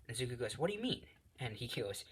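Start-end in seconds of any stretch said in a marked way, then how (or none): 0.6-1.1 puzzled question. Acted. Izuku asks puzzled.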